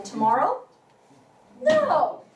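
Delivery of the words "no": "No" starting high, falling sharply, louder; fourth tone. Shown as a demonstration. Refusing badminton invitation, high falling "No". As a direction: hit "No" high and drop it. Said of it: "start it from high pitch and go down".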